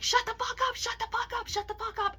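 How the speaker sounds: high-pitched mocking imitation of a sibling; mock cussing sister. Older sister cussing out her sibling, high mocking imitation. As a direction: repeat it in a high, put-on cussing voice. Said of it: "she started cussing at me".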